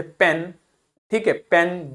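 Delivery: पेन said as English "pen", short "eh"; short vowel sound. Shown as a demonstration. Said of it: "तो short sound होगा".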